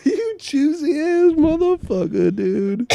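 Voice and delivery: very loud, high comic insult; full-volume mock indignation; mock outraged shout. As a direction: yell it at the top of your voice. Same insult repeated much louder.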